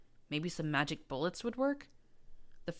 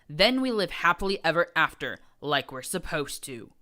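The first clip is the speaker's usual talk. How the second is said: hissing geniality; 8 dB louder than usual. A narrator's reading. Prince continues hissing speech.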